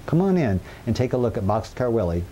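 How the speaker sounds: usual speaking voice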